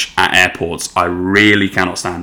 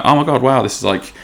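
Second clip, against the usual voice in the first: mildly excited, higher-pitched reenactment; 5 semitones higher, faster than usual. Retold or imitated. Couple reacting to their first holiday together, mildly excited. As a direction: act out a touch of excited wonder. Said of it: "This is exciting".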